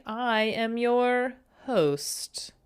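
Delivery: slow whispered aside; playful whisper. Acted. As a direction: breathe it out slowly like a secret. Whispered aside in host intro.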